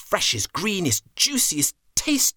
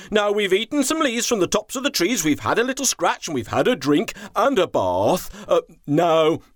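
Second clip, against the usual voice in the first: higher, quick, cheerful chief elephant; 5 semitones higher than usual. Acted. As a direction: talk fast with a grin as the chief elephant. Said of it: "he said with a big smile".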